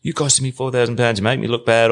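mild mock anger, pitch lifted; retold anger. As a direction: complain as the angry boss's man. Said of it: "then he got angry".

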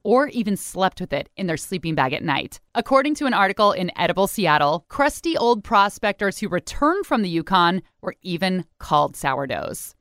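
crisp radio news read; news reporter voice. Acted. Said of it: "Please enjoy my news reporter voice".

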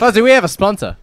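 ad read voice. Acted. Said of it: "Good ad read".

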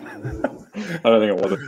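slow, laughing reply. Real, not acted. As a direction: laugh through the words. Laughing at a silly question.

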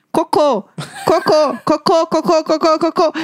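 escalating mock panic; mildly desperate warning. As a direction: repeat it urgently, half laughing. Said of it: "comecei a ficar um pouco desesperada".

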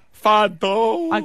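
high "Fat Dog" stretched into a yawn; demonstrated yawn. Shown as a demonstration. Co-host showing the host how it comes out, yawning. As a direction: yawn right through the words "Fat Dog". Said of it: "I yawn. I go".

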